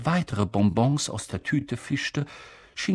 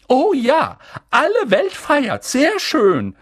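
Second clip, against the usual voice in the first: high, loud and impatient; sarcastic, fed up with the fuss; impatient McGonagall; 14 semitones higher, 8 dB louder than usual. A narrator's reading. McGonagall scoffs at Dumbledore, loud and impatient. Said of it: "sagte sie ungeduldig".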